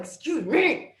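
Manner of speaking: loud high indignant excuse me; shocked, rising excuse me; yelled excuse me. Retold or imitated. Friend says she feels ugly, so a shocked yell. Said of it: "I, like, yelled".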